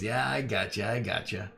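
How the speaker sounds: wheedling merchant making an offer; boss voice. Acted. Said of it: "He goes".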